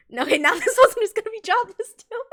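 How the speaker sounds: mock shout. Friend voiced reacting to her.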